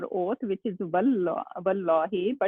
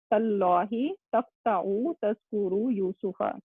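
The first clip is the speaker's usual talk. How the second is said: reciting a Quran verse. Shown as a demonstration. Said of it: "Surat Yusuf".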